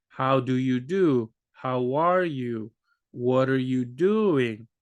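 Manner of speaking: very slow, each word spelled out; overly careful textbook English; slow careful speech. Retold or imitated. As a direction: talk slowly like to a learner. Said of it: "If you talk to them like that".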